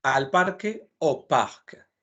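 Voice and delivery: "al parque o parc" said slowly; slow model pair. Shown as a demonstration. Teacher slowly compares Spanish and French for students.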